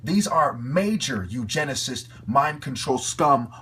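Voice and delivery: loud, slow, spitting out the names; furious yell. Real, not acted. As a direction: shout them down with disgust. Ranting, naming the collaborators.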